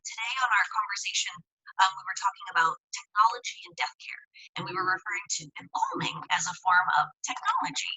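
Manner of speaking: glitchy robotic connection; choppy, robot-like call audio. Real, not acted. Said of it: "You sound like a robot right now".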